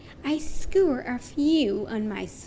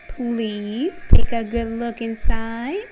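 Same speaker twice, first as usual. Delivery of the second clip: sly menacing shark; 7 dB louder than usual. Acted. Shark inviting reader into jaws.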